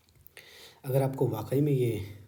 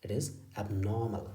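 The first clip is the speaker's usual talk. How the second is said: slow demo; 2 semitones lower, much slower than usual. Shown as a demonstration. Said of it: "British English को सिखाने की कोशिश".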